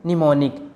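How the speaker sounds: निमोनिक starting on the N sound; silent M. Shown as a demonstration. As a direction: say निमोनिक with no M before the N. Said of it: "यहाँ पर एम silent है".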